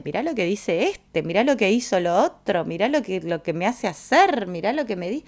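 imitating a scandalized complainer; lightly outraged, each complaint lifting at the end; mock scandalized. Imitating someone complaining about others, mildly scandalized. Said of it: "te escandalizás de".

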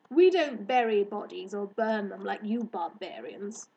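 mildly scornful, superior explanation; lofty hare. Acted. Hare to girl about burial customs, disdainful.

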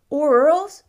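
put-on a curious small boy, bright and keen; little boy asking. A narrator's reading. Boy asks the shopkeeper about marquises, high and eager. Cedric adds a question.

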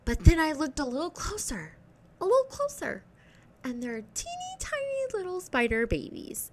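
very high, thin storytelling voice; high-pitched mock dread; squeaky horrified reveal. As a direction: creep up to the horror in a tiny high voice. Creepy reveal of baby spiders.

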